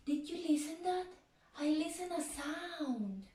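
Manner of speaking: mock hushed curiosity; hushed question. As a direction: ask it softly, full of mystery. Hushed wonder for kids.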